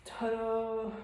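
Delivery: loud, high triumphant ta-da. Real, not acted. Vlogger finishing her workout, loud triumphant ta-da. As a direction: celebrate finishing the set.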